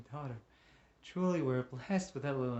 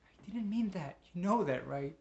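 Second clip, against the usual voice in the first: soft, broken-off apology; husband begging his wife to come home; remorseful pleading; 7 dB quieter than usual. Acted. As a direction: beg forgiveness, ashamed and quiet.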